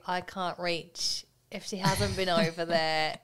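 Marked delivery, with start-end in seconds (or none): 0.1-1.2 slow mock child. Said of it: "to think of saying to you".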